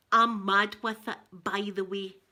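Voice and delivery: lightly put-on Scottish Ned; a hint of a cocky local Ned; wee Ned talk. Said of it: "they talk like this".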